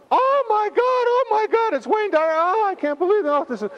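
shrieking way up high and loud in disbelief; high-pitched fan shriek; excited scream. Retold or imitated. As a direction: squeal like a starstruck fan. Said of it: "and screamed".

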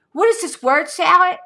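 high, loud mocking repeat; incredulous scoff. Real, not acted. Repeating her scoff at his nonsense text, incredulous. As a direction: hammer the disbelief home.

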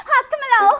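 high, loud hammed-up call; playful exclaim. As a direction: shout it out with glee. Playful teacher calling out. (ਜੋਸ਼ ਨਾਲ ਉੱਚੀ ਆਵਾਜ਼)

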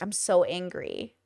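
half-hearted moping complaint; quiet mope. Retold or imitated. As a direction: mutter it like a sulk. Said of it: "why I chose to use those words".

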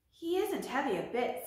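a touch of eager brightness; quick, keen reassurance; eagerly. Acted. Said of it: "said Dorothy eagerly".

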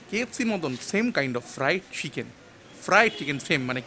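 muffled behind surgical mask; speaking with covered mouth; through a face mask. Real, not acted. Seen 0: Surgical mask covers mouth and nose whenever the speaker's face shows.

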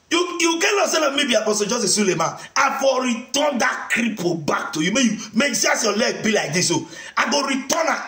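high, mocking yelled taunts; taunting shout. Mocking Mori about the healed cripple, taunting shout. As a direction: jeer at him across the room.

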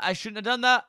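high, loud panicked regret; shouting right after a mistake. Real, not acted. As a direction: blurt it out in alarm. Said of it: "I should not have done that".

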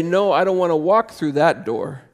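a hint of a stubborn prisoner refusing to leave; lightly voiced, refusing the open door with loud stubbornness. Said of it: "in our jail cell and say".

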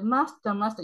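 lightly voiced high anime girl; a hint of a cutesy anime call. Vlogger mocking anime voices calling master, high mock call. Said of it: "He was a".

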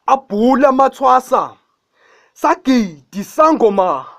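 poem recitation. Acted. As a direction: recite it like an imbongi, chanting the refrain. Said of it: "angeke nginishayele i-acapella yayo".

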